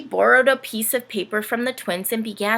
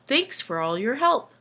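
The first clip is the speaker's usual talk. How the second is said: sleepy; 4 semitones higher than usual. Acted. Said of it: "said Santa sleepily".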